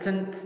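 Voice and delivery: wrong-way "tint", t running straight into nt; schwa left out. Shown as a demonstration. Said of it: "If we do it like this".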